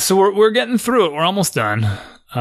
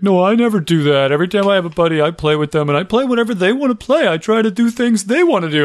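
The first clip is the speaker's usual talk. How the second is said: imitating his son; 5 semitones higher than usual. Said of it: "He's like".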